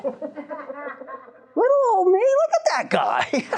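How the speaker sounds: high, laughing mock protest; squeaky-high, drawn-out disbelief through laughter; mock dismay. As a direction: play up the helpless little-me act, laughing. Teller playfully voices his own dismay.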